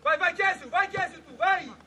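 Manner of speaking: loud, insistent sideline call; urging shout. Real, not acted. Coach driving a player forward, urging shout. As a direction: urge the player on loudly.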